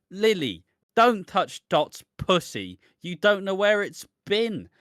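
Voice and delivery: slow, pointed mock line; imitating Honey. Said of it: "Take two".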